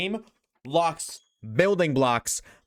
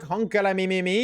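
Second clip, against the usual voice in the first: hyped catchphrase; 5 semitones higher, 3 dB louder than usual. Acted. Catchphrase in hype outro.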